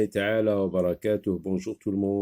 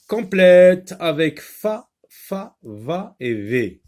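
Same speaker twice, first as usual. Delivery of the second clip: loud instruction; 8 semitones higher, 9 dB louder, slower than usual. Acted. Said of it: "reads the task aloud".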